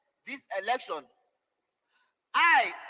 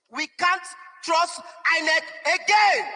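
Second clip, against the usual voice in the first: slow, raised shout of distrust; emotional outcry; 3 semitones higher, 3 dB louder than usual. Real, not acted. Activist at press conference, slow emotional shout. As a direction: cry it out slowly with raw emotion. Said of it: "I'm being so emotional about this".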